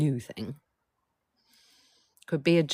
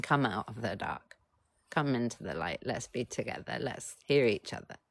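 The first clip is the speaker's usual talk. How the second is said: tender invitation; 3 semitones lower, 4 dB quieter than usual. Acted. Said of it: "if you're saying".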